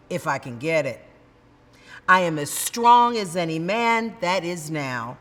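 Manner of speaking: steady, weighty public address; speech recitation. Acted. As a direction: deliver it to a hostile convention hall. Recites Sojourner Truth's speech.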